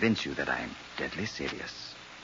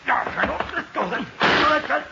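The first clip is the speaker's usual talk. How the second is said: shrill panicked scream, very loud; 7 dB louder, faster than usual. Acted. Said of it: "the colonel screaming that he can't see".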